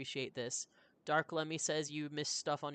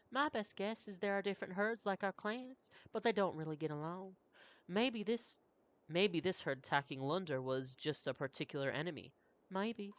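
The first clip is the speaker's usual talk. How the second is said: lightly raised, patient elder woman; 5 semitones higher than usual. Acted. Old Leaf in high voice.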